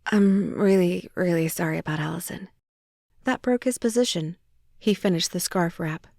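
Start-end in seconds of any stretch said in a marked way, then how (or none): 0.1-2.5 choked out. Acted. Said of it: "I choked out".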